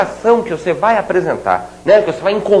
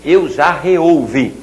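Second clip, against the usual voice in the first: slow correct demo; 3 semitones lower, much slower than usual. Shown as a demonstration. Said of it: "Vai dizer e vai escrever".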